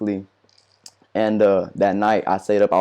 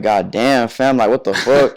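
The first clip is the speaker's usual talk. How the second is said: exasperated retold plea; 2 semitones higher, 5 dB louder, slower than usual. Recalling pleading with gunmen, slow exasperated retelling. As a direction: drag it out in disbelief, retold.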